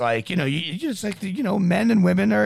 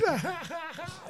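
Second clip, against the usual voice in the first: laugh; 9 dB quieter than usual. Real, not acted. Reacts to stabbing story.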